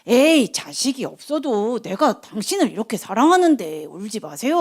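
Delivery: husband coaxing his wife, lightly acted; consoling husband. Husband comforting his childless wife, gently coaxing. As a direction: play a husband soothing his crying wife. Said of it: "한나를 위로해줘요".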